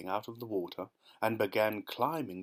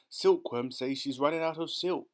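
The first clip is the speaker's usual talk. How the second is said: higher, mildly raised call; yelling from below; 5 semitones higher than usual. Acted. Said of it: "yelled the centipede from below".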